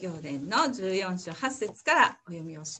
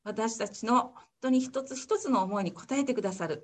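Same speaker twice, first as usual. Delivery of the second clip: gentle heartfelt prayer; closing prayer. Acted.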